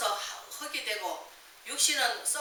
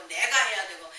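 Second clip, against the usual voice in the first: normal talking voice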